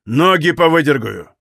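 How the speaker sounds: understated menace; menacing threat. Acted. Григорий pushing Валет out, a menacing promise. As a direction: send him off with a threat. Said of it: "недобрым голосом пообещал".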